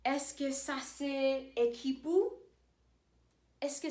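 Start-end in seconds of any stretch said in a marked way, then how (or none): 0.0-2.0 slow, every syllable of "Est-ce que ça c'est équipe?" spelled out; slow careful demo. Shown as a demonstration. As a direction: say it slowly for learners to copy. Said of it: "I could say".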